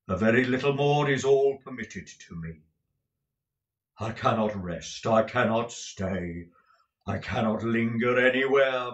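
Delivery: grave, solemn spectral voice; a doomed spirit bound to wander; weary ghost. Acted. Ghost tells of his weary fate.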